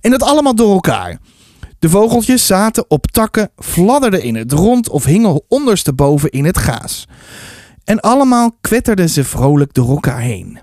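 put-on lively children's story reading; story narration. A narrator's reading.

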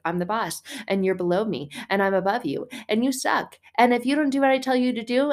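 a hint of a nagging boss hovering over you; hovering bossy boss. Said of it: "in a helicopter way ... he's like".

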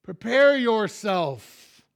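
high, loud, very drawn-out charge; forceful exhortation. Real, not acted. Preacher charging the congregation to get ready, forceful exhortation. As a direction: proclaim it slowly at full voice.

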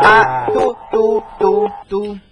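imitated phone tone. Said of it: "Es tu tú".

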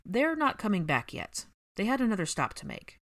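reluctant. Acted. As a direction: hold the news back unwillingly. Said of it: "spoke with reluctance".

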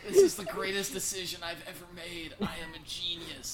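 high-pitched hammed-up triumph; triumphant gloating. Player gloating over the hamster in its ball, mock-triumphant crowing. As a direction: crow over your own brilliant decision.

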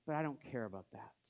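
low, soft imitation of hopeless indifference; dejected mock brush-off; deep despair. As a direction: imitate someone too despairing to care. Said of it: "was in such deep despair".

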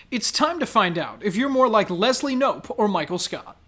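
lively game-show title reading; punchy, sing-song clickbait delivery; headline read. Acted. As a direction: present it like a quiz teaser. Reads out quiz headlines.

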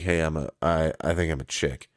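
mock Mike Tyson. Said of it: "Mike Tyson one day is like".

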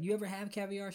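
lilting snooty question about "caviar"; condescending. Retold or imitated. Rich passenger to flight attendant, condescending. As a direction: look down on her as you ask. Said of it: "In a very condescending manner".

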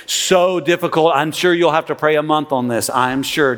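sarcastic. Acted. Pastor teasing the congregation about volunteering, dry sarcasm. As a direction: pretend the sign-up is a huge burden. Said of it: "Do you feel the sarcasm coming from me?".

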